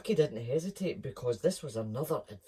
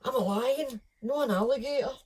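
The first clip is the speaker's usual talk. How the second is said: much higher, louder indignant cub; squeaky cub protest; 11 semitones higher, 6 dB louder than usual. Acted. Lucky protesting.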